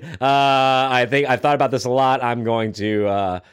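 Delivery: lightly put-on British accent, mock rock star; a hint of a British accent for a teen telling mom; a British rock singer. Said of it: "I don't know why he's British in this".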